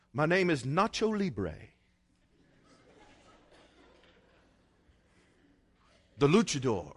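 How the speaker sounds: a hint of a Mexican wrestler's accent; Nacho Libre voice. Preacher joking what he could tell the President, mild Mexican accent. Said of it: "I could tell him something like that".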